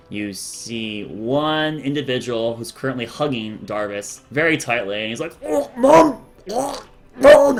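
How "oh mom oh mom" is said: high, loud squeezed son. Acted. Son crushed in mother's hug, high and loud. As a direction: gasp out Mom while being hugged.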